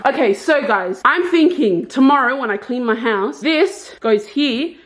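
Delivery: copying an Irish actress's way of talking, unhurried; Catriona Balfe impression. Showing viewers where furniture goes, in a light Irish accent. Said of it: "the reason I'm talking like this is because I was just watching Catriona Balf's live".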